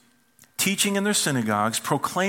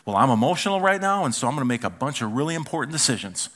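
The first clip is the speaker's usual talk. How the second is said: mock impulsive; faster than usual. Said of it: "we put it right at the top".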